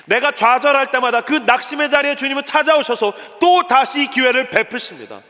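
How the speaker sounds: high, insistent testimony; impassioned preaching. Real, not acted. Preacher testifies to second chances from the Lord, impassioned preaching. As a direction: preach it with rising force.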